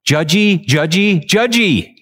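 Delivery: high mocking repeat, rising at the end; teasing singsong. Preacher mocks how judgy the verse sounds. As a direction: tease the word like a playground taunt. Mock chant about judging.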